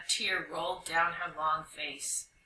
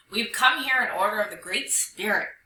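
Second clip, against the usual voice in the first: louder, formal declaration; announcing; 5 dB louder than usual. Acted. Dog to Fennec Fox, Vulture and Owl, announcing. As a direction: declare it to the whole group. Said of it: "Dog announced".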